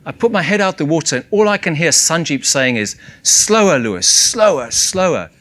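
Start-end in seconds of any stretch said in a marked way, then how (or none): 3.2-5.3 retold shouting. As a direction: call out slower across the water. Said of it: "and screaming at me".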